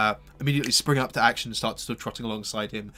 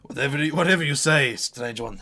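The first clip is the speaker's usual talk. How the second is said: chuckling; 3 semitones higher, 5 dB louder than usual. Acted. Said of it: "He chuckles and says".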